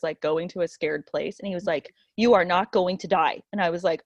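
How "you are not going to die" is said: firm, lightly voiced reassurance; stern husband. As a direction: imitate a stern husband laying down the law. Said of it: "he got really stern with me".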